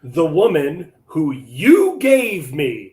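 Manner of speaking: slow, loud, emphatic blame-shifting; drawn-out, emphatic mock accusation. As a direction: pin the blame on the listener, slowly and loudly. Acting out Adam blaming God.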